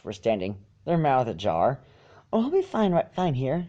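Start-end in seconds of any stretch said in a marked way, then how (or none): 2.3-3.7 sweetly. A narrator's reading. Fluttershy sweetly reassures the worried dragon. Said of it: "she said sweetly".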